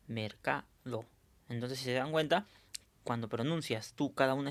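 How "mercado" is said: "mercado" with "ca" stressed and "do" set apart. Shown as a demonstration. Teacher demonstrating the tonic syllable, "mercado" with CA stressed. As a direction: lean on "ca" in "mercado", then detach "do". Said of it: "tenemos que pronunciar en voz alta".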